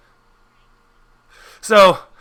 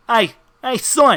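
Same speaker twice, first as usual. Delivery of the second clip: Tiny Bananas; 6 semitones higher than usual. Acted. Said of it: "Tiny Banana is gonna look at you and go".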